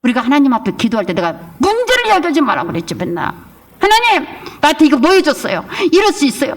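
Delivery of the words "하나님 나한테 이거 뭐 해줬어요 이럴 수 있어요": whiny high mock complaint to God; mock whining prayer; complaining prayer. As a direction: mimic a grumbling believer, pitch up. Pastor mimics complaining prayer.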